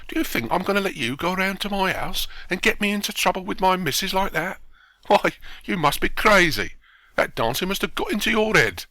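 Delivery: high, increasingly loud protest; acted outrage, building in volume; indignant outburst. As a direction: scold him as if he's mad. Watchman refuses the actor's plan.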